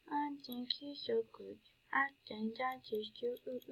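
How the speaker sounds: breathy whisper to the donor. Real, not acted. Gamer whispering gratitude to a donor, a hushed whisper. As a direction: whisper it, touched and grateful.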